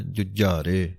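ਜੁਝਾਰੇ with a firm, pressed ਝ sound; said tightly. Shown as a demonstration. Teacher stressing the ਝ in ਜੁਝਾਰੇ for students, tight and firm. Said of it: "ਕੱਸ ਕੇ ਬੋਲਿਆ ਜਾਣਾ ਹੈ ਇਹ".

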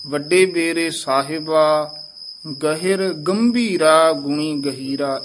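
deliberate "ਗਹਿਰ" with short i on the h; pronunciation demo. Shown as a demonstration. Teacher modelling the vowel, careful reading. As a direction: sound the short i in "ਗਹਿਰ", pause after "ਸਾਹਿਬਾ". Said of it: "ਗਹਿਰ ਹਾਹੇ ਦੀ ਜਿਹੜੀ ਸਿਹਾਰੀ ਹੈ".

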